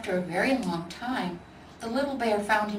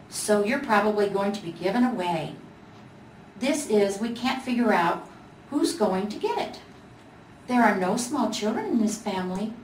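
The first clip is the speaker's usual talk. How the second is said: gingerbread voice. Acted. Gingerbread Boy explains.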